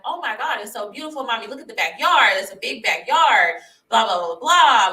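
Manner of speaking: lightly voiced excited kid; excited son. Her oldest son on FaceTime seeing the house, excited. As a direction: imitate a boy's gushing, lilting upward.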